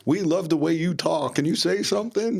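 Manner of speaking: put-on high, giggly young women gushing; high mock-girly voice begging him to talk; giggly girls. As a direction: mimic the girls at the drive-through window, gushing. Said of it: "and they're giggling".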